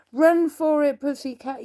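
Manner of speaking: high, urgent yell to run; high yelled warning from a mouse. A narrator's reading. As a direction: shout at the cat to flee. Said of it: "yelled Nipper".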